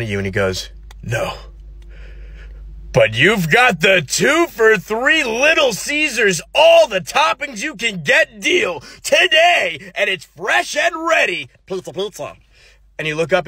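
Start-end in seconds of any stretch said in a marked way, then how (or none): 1.0-11.5 high, slow, shouted ad announcer; pizza commercial pitch. Acted. Man in white suddenly pitches Little Caesars, shouted announcer style. 11.7-12.4 much softer, odd mascot voice; mascot tagline. Acted. Ad ends with a quiet Little Caesars jingle voice.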